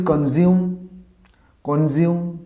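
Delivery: কনজিউম as "kon-zium", with a z; common mispronunciation. Shown as a demonstration. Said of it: "আমরা বলি". (ভুল কনজিউম, "জ" দিয়ে)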